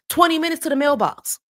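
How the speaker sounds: comic indignant outburst; incredulous. Retold or imitated. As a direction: balk at the absurd distance. Outraged reaction to long walk.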